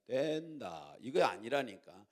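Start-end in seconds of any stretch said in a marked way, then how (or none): 0.1-1.0 Gyeongsang accent with drawn-out stress on 된; accented Gyeongsang version. Shown as a demonstration. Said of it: "여기다가 악센트를 주라니까".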